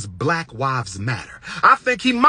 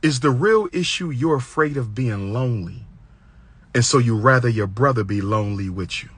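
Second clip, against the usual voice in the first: calm confrontation; 4 semitones lower than usual. Shown as a demonstration. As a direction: throw shade in a calm, even voice. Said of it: "when you say it calm".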